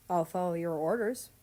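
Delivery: flat, even monotone voice. Acted. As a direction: say it in a dull monotone. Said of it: "said with a monotone voice".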